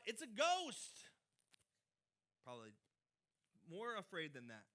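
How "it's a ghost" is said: high, loud, slow fearful cry of It's a ghost; frightened cry. A narrator's reading. Disciples in the boat seeing Jesus on the water, terrified cry. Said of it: "they cried out".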